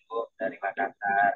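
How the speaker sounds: broken-up audio. Real, not acted. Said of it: "suaranya putus-putus".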